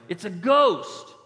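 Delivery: loud, high, drawn-out mock alarm; mock fearful cry. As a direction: stretch out a hammed-up cry of fright. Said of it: "they cried out in fear".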